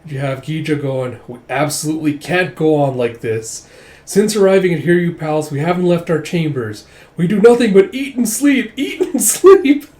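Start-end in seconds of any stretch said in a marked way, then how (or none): 1.2-9.8 high, loud, whiny griping voice, breaking into a laugh at the end; whiny complaint. Acted. Dragon Warrior griping about idle palace life, high and whiny. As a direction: moan about lazing around, pitched way up.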